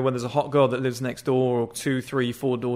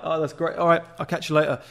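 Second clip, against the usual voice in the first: casual parting; 3 semitones higher than usual. Shown as a demonstration. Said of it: "when you're looking back at somebody".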